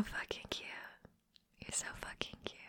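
fading breathy whisper; teasing whisper. Acted. Teasing a shy cuddling friend, whispered. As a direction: tease them under your breath.

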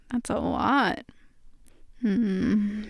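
ordinary delivery

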